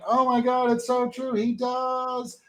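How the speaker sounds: squealing fans, lightly voiced; excited audience. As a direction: play the crowd delighted by the likeness. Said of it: "while they're laughing and going".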